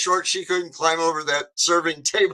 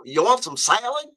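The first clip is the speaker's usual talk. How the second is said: lightly imitated Southern lady, higher; Southern serving lady; 6 semitones higher than usual. Southern cafeteria lady offering salad, light Southern accent. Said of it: "you imitate 'em, a Southern person".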